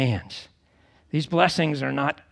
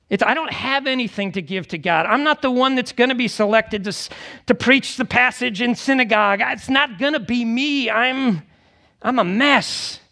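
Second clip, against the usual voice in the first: higher voice protesting unworthiness; self-doubting confession; 5 semitones higher than usual. Acted. Preacher voicing someone poor in spirit, self-doubting. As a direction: lightly act someone admitting they fall short.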